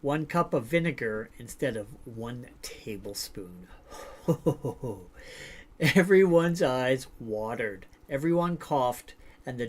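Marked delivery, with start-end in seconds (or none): 3.7-5.7 soft, breath-only chuckle; amused laugh. Real, not acted. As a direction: chuckle quietly at the mishap. Amused by the gravy story.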